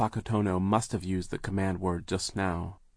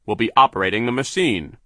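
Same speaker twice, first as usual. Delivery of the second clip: sneering villain; 3 semitones higher, 9 dB louder than usual. A narrator's reading. Remembered foreman line.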